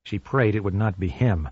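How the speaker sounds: ordinary delivery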